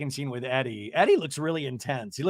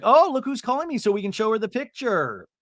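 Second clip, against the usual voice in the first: higher, lilting quote of a daughter; lightly put-on high voice, imitating; acted-out daughter; 7 semitones higher, 4 dB louder than usual. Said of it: "And Sophie's like".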